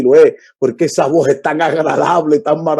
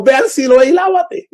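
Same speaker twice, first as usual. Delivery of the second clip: 1 emphatic cry; 9 semitones higher than usual. Acted. Blind man recalls Jesus' command.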